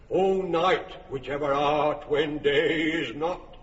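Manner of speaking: overblown, wailing Pyramus with big swoops on every Oh; hammy tragic lover. Acted. Pyramus wails hammily at the wall for Thisbe. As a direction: ham up the lament like a bad village actor.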